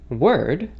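"word" with a full American R; "word" with the R clearly sounded; Americanized pronunciation. Shown as a demonstration. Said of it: "as the Americanized pronunciation would be".

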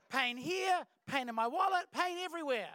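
loud, high, hammed-up proclaiming; mock celebration. Preacher joking that pain is everywhere, mock-excited. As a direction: announce each item with absurd gusto.

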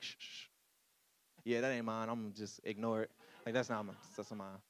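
low, soft, offhand mumble to oneself; dismissive hushed aside. Acted. Parent disowning a crying kid in a room, hushed and dismissive. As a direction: quietly brush it off, voice dropped.

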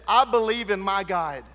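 loud proclaiming cry; preached declaration. Acted. Preacher voicing Noah's hammer, loud proclaiming. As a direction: declare it to the whole crowd.

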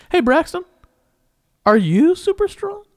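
high, slow, drawn-out grand question; dramatic host question. Pretend. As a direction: ask it like a game show host. Host poses big show question.

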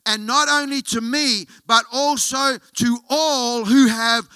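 impassioned preacher driving toward the key phrase; forceful preaching. Real, not acted. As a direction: press the point home to the congregation. Preaches with force, reads scripture.

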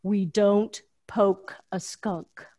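slow, calm imitation of a Southern drawl. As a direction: drawl it out like a patient Southern official. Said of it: "in that deep Southern voice".

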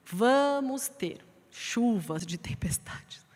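slow hushed whisper. Acted. Preacher warning the congregation of storms in a slow whisper. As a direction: breathe the warning out, slowly.

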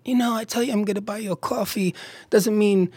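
mock New York rant about coffee prices; New York accent. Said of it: "I'm hearing this New York accent".

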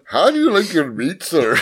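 mock Malaysian accent. Clerk asking about meat, mock Malaysian accent. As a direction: play it with a fake Malaysian lilt. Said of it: "Uh, Malaysian".

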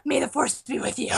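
lightly voiced earnest child; imitating young fan. Young girl blessing her Rey, imitated awe. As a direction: do the little fan's solemn blessing. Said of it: "She's so excited".

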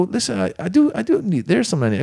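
mock urgent request. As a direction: beg for help in a high voice. Retold request to the bellman.

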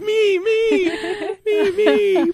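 high, eager me me me; mock eager me me. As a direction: plead like a kid waving a hand. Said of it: "the whole time he's like".

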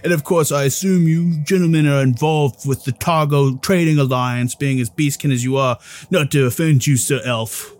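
proud official, lightly played; lightly voiced official.

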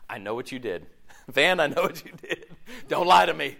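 mock-stern Jesus through laughter; laughing mock accusation. Pastor jokingly voicing an accusing Jesus, laughing. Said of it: "Can you imagine?".

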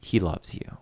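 soft, slowing motherly reassurance; quietly consoling, just between us; confiding mother. Retold or imitated. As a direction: play a mom gently smoothing things over. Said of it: "she sits down with the daughter and she's like".

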